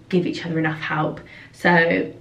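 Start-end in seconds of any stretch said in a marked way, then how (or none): 1.5-2.1 getting short of breath. Real, not acted. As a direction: run out of air while talking. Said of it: "I feel like I'm getting out of breath".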